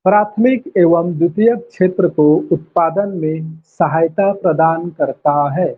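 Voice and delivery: measured dictation, slowing toward the end. Real, not acted. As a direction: dictate it word by word for note-takers. Dictating notes for students to write. (लिखवाते हुए धीमी, नपी-तुली आवाज़)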